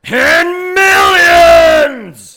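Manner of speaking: drawn-out high, loud holler; hype shout. Acted. Co-host echoing the host's millions, drawn-out hype shout. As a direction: yell it like a ring announcer, stretching it.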